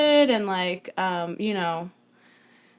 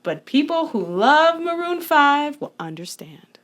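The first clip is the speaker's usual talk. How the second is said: whispering; 6 semitones higher than usual. Real, not acted. Confiding aside to cohost.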